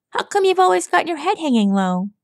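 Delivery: Rainbow Dash voice. A narrator's reading. Rainbow Dash voiced, fast and high.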